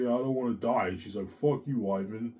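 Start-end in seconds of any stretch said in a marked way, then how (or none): 0.0-0.9 higher, louder retold plea; mock-tearful outcry; crying protest. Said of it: "when I cry, I say". 1.3-2.3 retold distressed curse; tearful cursing. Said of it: "She's crying".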